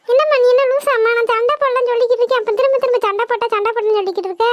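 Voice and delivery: exasperated, rapid-fire retort; yelling back. Acted. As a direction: argue back in a rush of irritation. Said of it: "ஏன்டி இப்படி கத்திக்கிட்டு இருக்க?".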